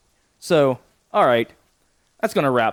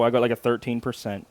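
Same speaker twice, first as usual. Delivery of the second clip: normal talking voice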